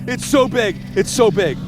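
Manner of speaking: overwhelmed, the voice cracks up high then slowly comes down; awestruck squeal. Real, not acted. Angler sees huge bass come up, real high awestruck squeal. Fish surfacing through hole.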